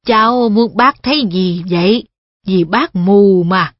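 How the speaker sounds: put-on a puzzled blind old man. Wolfram answers Perrin.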